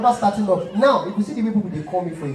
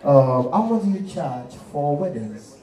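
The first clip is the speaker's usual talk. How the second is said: low, slow rich caller; 5 semitones lower, slower than usual. Acted. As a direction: speak low and slow like money. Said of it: "Because of their voice".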